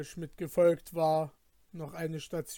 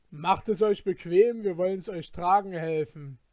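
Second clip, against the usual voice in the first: a touch louder, hammed-up gracious robber; mock polite robber; 2 semitones higher, 5 dB louder than usual. Companion imitates robbers offering to carry loot, mock courteous. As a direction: sneer through fake courtesy. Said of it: "fragten ganz höflich".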